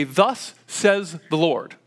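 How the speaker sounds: slow, measured pronouncement of a prophet; prophet's proclamation. Retold or imitated. Prophet conveying the Lord's message to the people, slow proclamation. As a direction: proclaim it slowly, word by word. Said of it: "they would come and they would say".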